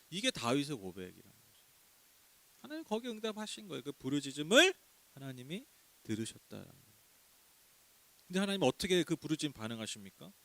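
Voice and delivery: usual speaking voice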